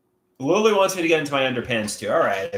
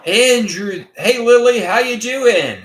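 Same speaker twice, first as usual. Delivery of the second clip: big bright hello, louder and higher; light up to greet a friend; excited hello to a viewer on stream; 10 semitones higher, 8 dB louder, slower than usual. Real, not acted.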